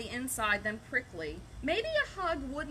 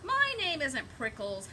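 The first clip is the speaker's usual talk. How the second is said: mild mock yell; 4 semitones higher than usual. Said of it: "Hank yelled back".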